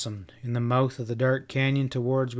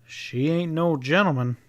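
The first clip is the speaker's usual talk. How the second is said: grinning; 4 semitones higher than usual. A narrator's reading. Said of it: "grinned the squat rider".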